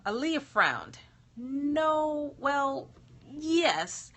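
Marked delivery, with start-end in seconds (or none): 1.3-4.1 flustered genie. Acted.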